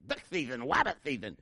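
sputtering, lisping cartoon duck; spray the s sounds like a cartoon duck; slushy cartoon lisp, r turned to w; Daffy Duck. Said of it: "Sound like Daffy Duck".

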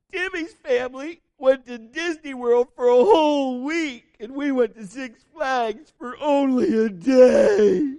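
high, loud, drawn-out bratty wail; exaggerated tearful child whine, slowing and swelling; whining little girl. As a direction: wail it like a sobbing little kid. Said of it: "And the little girl says".

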